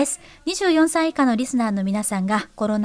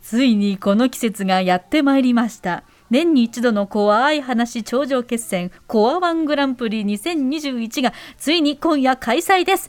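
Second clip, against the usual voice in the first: hushed creepy ghost story. Acted. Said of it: "すごいこの音に引きずられるな".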